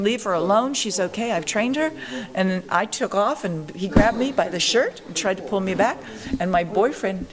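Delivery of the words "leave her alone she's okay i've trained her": mild mock yell, slightly raised pitch; retold coach's scream. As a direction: protest like a protective coach, without really shouting. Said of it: "and my coach screamed".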